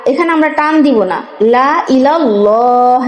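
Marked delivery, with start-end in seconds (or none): 1.5-3.0 slow Quranic recitation with the long stretch on লা; লম্বা টান. Shown as a demonstration. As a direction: recite লা ইলাল্লাহ with a long drawn লা. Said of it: "এই লামকে একটা টান দিব". (লা-তে লম্বা টান দিয়ে তিলাওয়াত)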